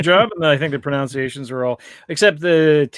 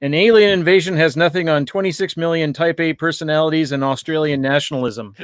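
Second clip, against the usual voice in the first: prepared one-liner. Shown as a demonstration. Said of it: "I actually prepared".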